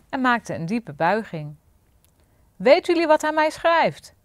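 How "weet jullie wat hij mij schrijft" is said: high, loud indignant cry; king calling out. A narrator's reading. King crying out to the lackeys in anger. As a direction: call it out in outrage. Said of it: "riep koning Gulzig".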